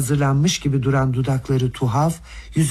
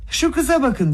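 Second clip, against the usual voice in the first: sharp high-pitched cry, much higher; outcry; 7 semitones higher than usual. A narrator's reading. Brother crying out to Nastasya Filipovna, high outcry. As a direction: cry out to make everyone look at the girl. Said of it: "diye haykırdı".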